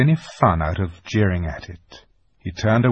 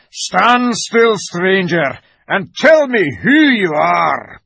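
loud, high growled command; fierce wolf challenge, slowing at the end; growling wolf; 9 semitones higher, 10 dB louder, slower than usual. A narrator's reading. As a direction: growl out the order like a wolf on guard. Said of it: "said in a growling voice".

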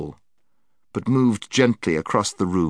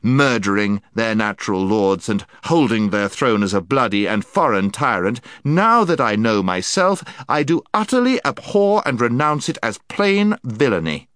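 noble prince; 4 semitones higher, 5 dB louder than usual. Acted. Prince's formal declaration.

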